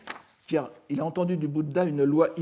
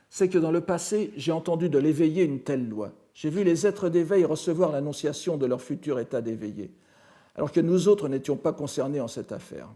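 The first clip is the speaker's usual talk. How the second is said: slightly raised, declaimed sutra quotation; reading scripture aloud; 4 dB louder than usual. Acted. Lecturer citing Shariputra's words from the sutra, lightly declaimed. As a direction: read the citation out clearly to the room.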